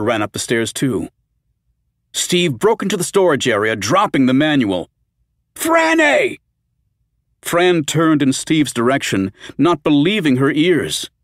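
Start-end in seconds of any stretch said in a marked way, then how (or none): 5.5-6.4 high, loud desperate call of her name; urgent call. Acted. Steve bursts in as the zombie reaches Fran, shouting.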